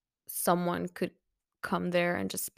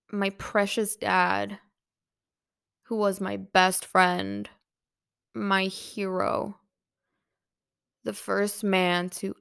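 slow, aching words of love; lingering on each phrase for her dead dad; tender grief. Retold or imitated. Daughter mourning her father, slow and tender.

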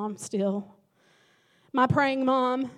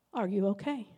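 concerned mom; 4 semitones lower, 5 dB quieter than usual. Retold or imitated. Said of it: "very concerned".

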